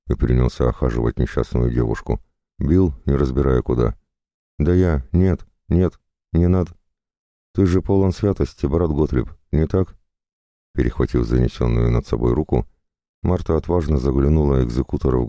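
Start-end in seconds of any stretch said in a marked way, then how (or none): 4.6-10.0 a higher, lightly voiced frightened girl; pleading captive. Marta pleads with the whipping jailer, pitched up and alarmed. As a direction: protest and plead, pitched up, but not in full terror.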